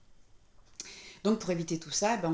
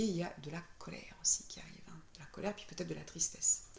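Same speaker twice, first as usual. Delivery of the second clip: whisper; 6 dB quieter than usual. Real, not acted. Explaining emotions arriving, whispered.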